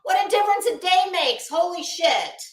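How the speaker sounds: replaying her own shocked reaction, loud and high; exclaiming in shock. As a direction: gasp it out like you can't believe your eyes. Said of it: "what I said yesterday was".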